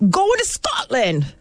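put-on a playful Scottish accent that misses a little. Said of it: "Is that a Scottish accent?".

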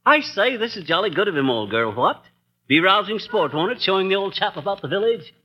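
hammed-up posh British gent; a light put-on English accent; mock English accent. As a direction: play the jolly English squire, lightly. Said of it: "how awful you sound".

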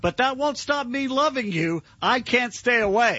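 slow creepy serenade, half joking; mock creepy stalker. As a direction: ham up a lovesick stalker, slowly. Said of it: "That's stalking".

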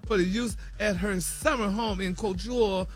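chatty celebrity news read peppered with honey and y'all; sassy gossip news read. Acted. Radio host reading celebrity news to co-hosts, sassy gossip read.

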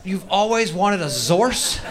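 slow, stretched disbelief; incredulous. Real, not acted. Comic repeating the girl's wish in slow disbelief. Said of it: "comic repeats her line incredulously".

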